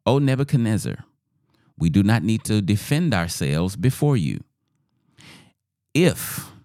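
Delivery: measured, declamatory Bible reading; scripture reading. A narrator's reading. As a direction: read the bold reply with deliberate pauses. Reads scripture aloud to congregation.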